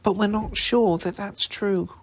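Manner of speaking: quick. A narrator's reading. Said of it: "said Hermione quickly".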